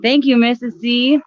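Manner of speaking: high bright thank you; cheery thanks. Real, not acted. Thanking a viewer on live.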